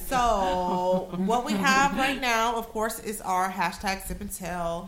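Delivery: slow, drawn-out host presentation; measured show-host announcing; game show host. Real, not acted. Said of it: "You sound like a game show host".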